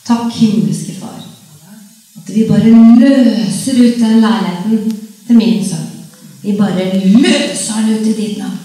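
slow, earnest quoted prayer. Retold or imitated. Mother praying for her son's flat, slow and earnest. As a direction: pray it slowly, claiming the flat.

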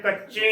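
ਕੱਚੀ with its 'ee' through the nose; slightly nasal ending. Shown as a demonstration. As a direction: say ਕੱਚੀ as 'kachcheen'. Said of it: "ਥੋੜੀ ਜਿਹੀ ਆਵਾਜ਼ ਨੱਕ ਵਿੱਚੋਂ ਦੇਣੀ". (ਕੱਚੀ ਦੀ ਬਿੰਦੀ ਨੱਕ ਵਿੱਚੋਂ)

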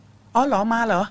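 slow, unbothered "oh, it's you?"; casual greeting. Retold or imitated. Host imitating nurse casually greeting a ghost, slow and unbothered. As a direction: greet the ghost like an old acquaintance, drawn out. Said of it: "ก็ใช้คำว่า".

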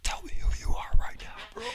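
shout-whisper the angry manager's demand; a whispered imitation of a furious man yelling; retold yell. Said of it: "and he would scream".

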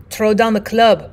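a mild, firm command. Acted. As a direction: give the order plainly but firmly. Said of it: "Perrault commanded".

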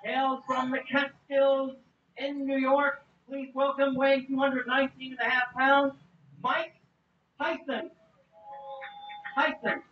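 boxing ring announcer. Real, not acted. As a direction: call the fighter's name to the crowd. Ring announcer introduces Tyson.

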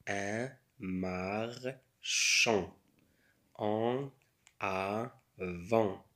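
slow, broken into syllables. Shown as a demonstration. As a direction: sound it out piece by piece. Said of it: "بالمقاطع".

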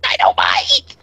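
high, gleeful yell of dynamite; excited shout. Acted. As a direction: shout it with delight. Gleeful cry about dynamite.

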